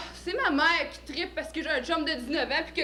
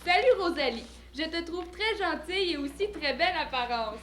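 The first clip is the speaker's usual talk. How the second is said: mock love letter read. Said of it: "Tu vas rire".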